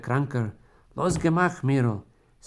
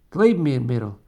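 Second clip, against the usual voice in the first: louder, pressing her to believe; urgent plea; 5 dB louder than usual. Acted. Dying husband urges his wife to believe him, loud. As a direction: plead with her.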